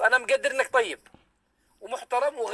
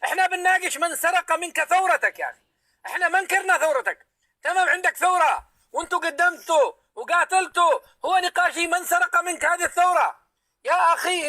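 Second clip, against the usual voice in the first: heated scolding; 6 semitones higher than usual. Real, not acted. Host scolds interrupting guest.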